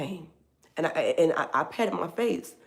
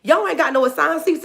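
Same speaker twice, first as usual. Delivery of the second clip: imitating the bishop; 4 semitones higher than usual. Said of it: "He said".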